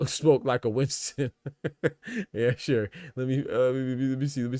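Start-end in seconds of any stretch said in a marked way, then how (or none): 0.1-1.3 laughing. Real, not acted. Reading a funny chat message. 1.4-2.3 laugh. Real, not acted. Reacts to a chat joke.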